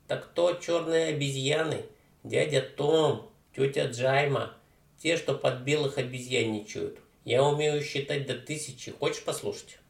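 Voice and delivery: put-on a brash teenage punk mangling words; дерзкий уличный парень. Street kid voice. (громкий развязный подросток)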